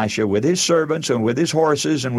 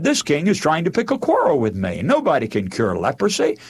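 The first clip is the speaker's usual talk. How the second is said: upset king; 3 semitones higher than usual. Retold or imitated. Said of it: "he just got very upset".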